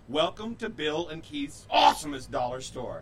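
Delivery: loud hyped announcer read; monster truck ad. Acted. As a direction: sell it like a monster truck commercial. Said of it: "you have to say it like that".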